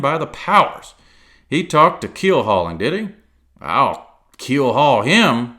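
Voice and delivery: high, loud, eager rush; excited. A narrator's reading. Silver putting on excitement for Jim, loud. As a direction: fake a show of excitement. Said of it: "now quite excited".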